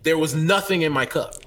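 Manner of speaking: firm, polite complaint; stern. Shown as a demonstration. Customer confronting barista over empty cup, stern. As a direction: sternly call out the mistake. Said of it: "they hear the sternness in your voice".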